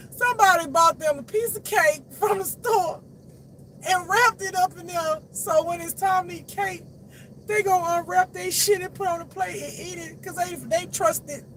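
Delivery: high-pitched laughing storytelling; barely holding in real laughter; cracking up. Real, not acted. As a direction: squeeze the words out through laughter. Cracking up while telling story.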